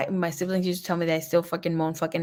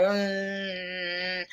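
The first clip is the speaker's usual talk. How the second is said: imitated moan; 7 dB quieter than usual. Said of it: "I was like".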